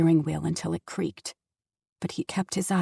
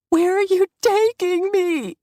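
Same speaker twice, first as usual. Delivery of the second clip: much higher, loud frightened wail; terrified cry; 11 semitones higher, 7 dB louder than usual. Acted. Daughter bawling at her father, terrified. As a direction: cry it out in panic. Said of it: "she bawled, terrified".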